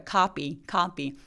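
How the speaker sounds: "copy" with tense p and open ah; saying ahh. Shown as a demonstration. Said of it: "약간 된 소리가 나서 copy라고".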